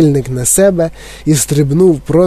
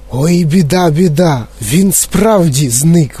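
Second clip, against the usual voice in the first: dismayed cry; slower than usual. Acted. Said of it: "вигукнув пан Т В".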